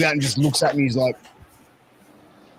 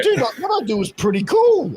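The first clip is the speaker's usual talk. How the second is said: high mock protest; 11 semitones higher than usual. Dad defending his job.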